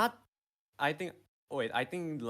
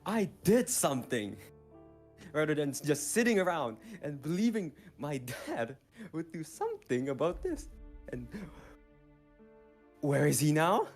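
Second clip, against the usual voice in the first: evil monologue. Acted. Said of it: "let me do my evil monologue".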